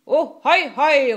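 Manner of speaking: high, loud double hail; pirate shout. A narrator's reading. Pirate Enøje cheers the captain on, shouting. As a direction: whoop it out across the ship. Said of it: "råbte Enøje".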